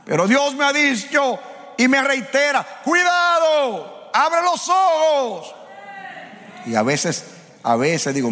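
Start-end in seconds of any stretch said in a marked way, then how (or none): 0.0-5.5 high shouted preaching, the warning very slow; preaching at full force. Acted. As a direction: build up, then shout the warning slowly. Preaching climax, God's warning. (predicación encendida, gritando la advertencia despacio)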